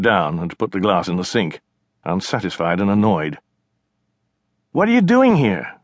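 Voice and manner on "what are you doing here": higher, louder aggrieved complaint; indignant sister. Acted. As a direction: protest the stolen water, annoyed. China asks her brother.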